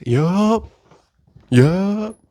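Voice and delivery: high, rising little yup; high-pitched confirmation. Acted. Answering whether his mental health still sucks, high-pitched. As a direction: answer high up, as if playing along. Answers the imagined shocked listener.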